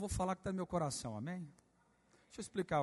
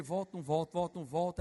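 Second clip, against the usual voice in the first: dithering singsong. Retold or imitated. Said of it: "E aí eu falei".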